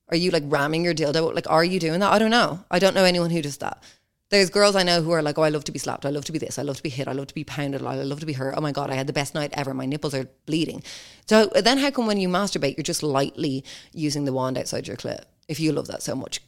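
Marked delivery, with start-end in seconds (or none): 5.4-10.8 low, soft rattled-off list; mock boasting. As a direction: imitate girls reeling off their likes, quietly. Imitating girls who claim enjoyment.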